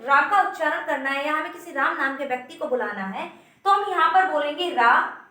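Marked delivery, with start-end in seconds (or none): 4.7-5.2 रा with the आ dragged out long; calling out रा with a long pluta vowel; stretched aa. Shown as a demonstration. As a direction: hold the आ in रा for three beats or more. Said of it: "इस आ को हम इतना ज्यादा खींच देंगे".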